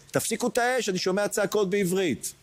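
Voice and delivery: קריאה גבוהה של חייל שמורה להפסיק אש; retold soldier's shout. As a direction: call out the cease-fire order, high and urgent. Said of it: "חייל ישראלי צועק". (חייל צועק גבוה להפסיק את האש)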